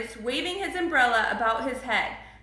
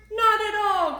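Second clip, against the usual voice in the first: high, emphatic storybook grumble; mildly grumpy grandfather; grumbling; 8 semitones higher, 4 dB louder than usual. A narrator's reading. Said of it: "grumbled Grandfather".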